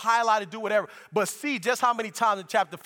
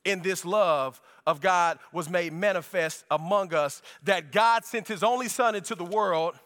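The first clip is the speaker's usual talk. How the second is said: scripture reading; 2 semitones lower than usual. Acted. Pastor reading the Bible passage aloud to the church. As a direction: read the verses with weight.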